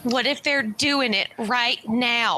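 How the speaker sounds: mock-distraught, with sighs and pauses; put-on heartbreak. Daphne begs sympathy from receptionist, acted distress. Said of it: "I put on my most, like".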